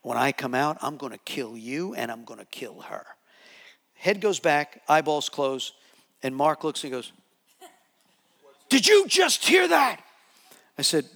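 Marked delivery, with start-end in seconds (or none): 0.0-3.1 low, quiet demonic threat; man's voice. Retold or imitated. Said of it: "in a man's voice". 8.7-10.0 high, loud mock yell; panicked high-pitched holler; shocked shout. Retelling Mark's shocked reaction.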